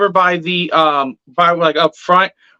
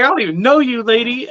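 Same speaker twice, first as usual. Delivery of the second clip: retold indignation, pitched up; mildly affronted, higher than usual; insulted; 5 semitones higher, faster than usual. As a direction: take offence at a stranger. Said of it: "I felt insulted".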